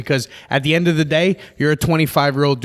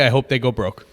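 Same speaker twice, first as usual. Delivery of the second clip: breaking into real laughter; amused jab. Real, not acted. Podcast host roasting the dudes, amused and laughing. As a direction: let the joke tip over into a laugh. Joking insult, then bursts out laughing.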